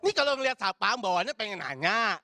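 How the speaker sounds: emphatic punchline repeat; emphatic restatement. Shown as a demonstration. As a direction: hammer the line to the crowd. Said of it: "bener ya?".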